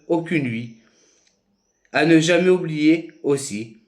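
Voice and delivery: measured poetry reading, phrase by phrase with pauses; poem recitation. Acted. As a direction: recite your poem deliberately, each phrase rising then falling. Recites own poem aloud. (récitation de poème, posée et rythmée)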